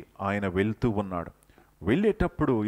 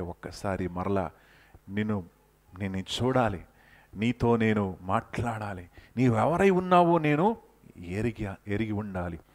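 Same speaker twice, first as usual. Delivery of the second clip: quiet prayer. Acted. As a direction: pray it gently as Moses. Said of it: "అని మోషే ప్రార్థిస్తా ఉన్నాడు".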